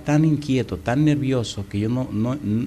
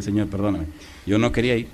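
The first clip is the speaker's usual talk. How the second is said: soft, lower plea; quiet confession; 4 semitones lower, 5 dB quieter than usual. Retold or imitated. Preacher to God, soft and low. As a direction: hush it like a private prayer. Preacher quoting his prayer.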